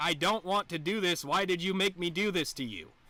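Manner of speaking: acted tearful, crying, pleading tone. Acting out what is said while punching someone: imitating own crying plea. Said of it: "I'm gonna be crying, saying".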